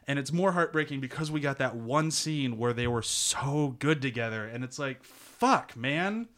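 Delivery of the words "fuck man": high, loud frustrated groan, slowing on stupid vampires; exasperated outburst. Real, not acted. Fan reacting to tragic ending, exasperated outburst. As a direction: vent at the ruined romance.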